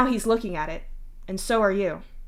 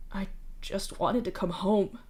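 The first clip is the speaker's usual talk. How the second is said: softer, hurting, close to breaking; agonized; 5 dB quieter than usual. Acted. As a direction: mourn what he lost. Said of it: "the agony in his voice".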